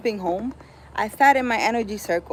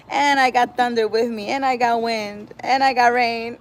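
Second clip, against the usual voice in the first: louder, higher, gleeful boasting with a laugh in it; playful warrior boast; 3 semitones higher, 6 dB louder than usual. Pretend. Picturing herself slaying evil, gleeful louder boast. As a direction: pump yourself up like a storm warrior.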